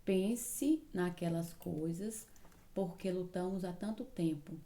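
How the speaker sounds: "Pense naquelas coisas" drawn out slowly, each word set apart; slow, careful reread. Shown as a demonstration. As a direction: reread the hard sentence slowly for the class. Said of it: "essa frase aí tá difícil".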